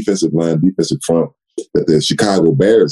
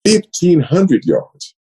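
"fifteen hundred yards" drawn out slow, higher, each word hit; emphatic stress; 12 semitones higher, much slower than usual. Real, not acted. Player stresses his bold rushing target, slow and emphatic.

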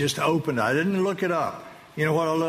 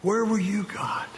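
anguished cry; 7 semitones higher, slower than usual. Retold or imitated. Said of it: "And I just said".

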